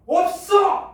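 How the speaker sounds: high loud snapped refusal; curt shouted no; mom refusing loudly. Retold or imitated. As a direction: yell it to shut the kid down. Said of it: "막 이러면서".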